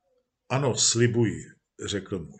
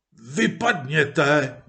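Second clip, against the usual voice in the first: shouting; much slower than usual. Acted. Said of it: "křičel muž".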